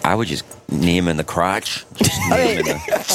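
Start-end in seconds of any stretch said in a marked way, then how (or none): 1.9-3.1 squeaky voice. Pretend. Squeaky joking exclamation.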